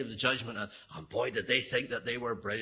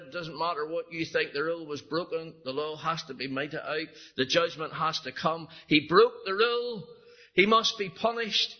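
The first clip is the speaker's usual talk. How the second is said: insistent teacher; 5 semitones higher than usual. Retold or imitated. Teacher insists rule must hold.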